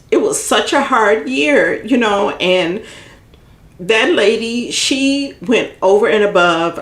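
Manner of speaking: pushing through tears about a hard year; getting emotional. Real, not acted. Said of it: "I'm sorry, I'm getting emotional".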